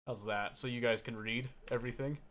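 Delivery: normal talking voice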